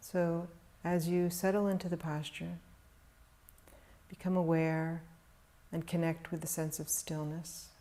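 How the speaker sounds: calm, measured meditation voice with long pauses; guided meditation. Real, not acted. Teacher guiding meditators to settle into stillness, calm meditation delivery. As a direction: guide them gently into stillness, leaving long silences.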